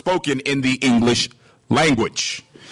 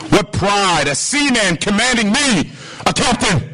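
indignant captain; 3 semitones higher than usual. Acted. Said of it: "Captain goes".

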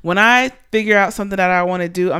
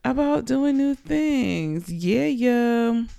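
giddy; 5 semitones higher, 3 dB quieter, much slower than usual. Real, not acted. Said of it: "feeling all giddy and excited".

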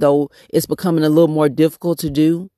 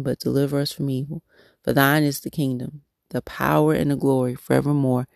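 prayer. Acted. Praying to God for herself and her listeners, reverent prayer voice. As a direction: pray it aloud, reverent and heartfelt.

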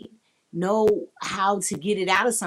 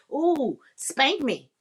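mock sexy plea; 6 semitones higher, much slower than usual. Shown as a demonstration. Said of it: "I have to be able to say".

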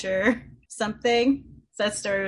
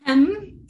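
mock throat clearing; 8 semitones higher, 6 dB louder than usual. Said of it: "Just kidding".

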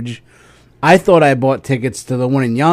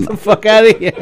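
mock disbelief; 8 semitones higher than usual. Real, not acted. Reacting in disbelief.

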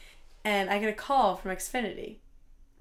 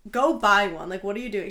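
louder opening, mock-exasperated agent; imitated exasperated agent; 7 dB louder than usual. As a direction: imitate an agent who thinks you're an idiot. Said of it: "she thinks I'm such an idiot".

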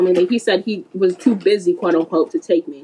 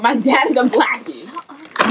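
slow mocking quote; 3 semitones higher, much slower than usual. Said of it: "you said, and I quote".

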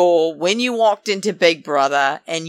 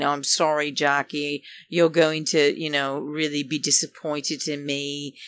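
mock sad Enzo; 5 semitones lower, 7 dB quieter than usual. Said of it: "he's saying".

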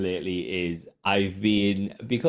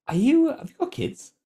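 mock high-pitched viewer. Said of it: "this guy goes".

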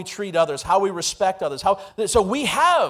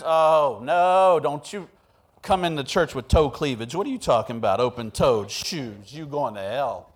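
mock church scold; 7 semitones lower, 3 dB quieter than usual. Mocking strict church lady.

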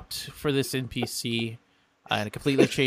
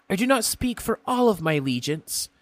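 higher, formal imp offer; courteous imp, retake; 4 semitones higher than usual. Acted. Imp formally offering the egg from the Nine Hells. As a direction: present the gift with grand politeness.

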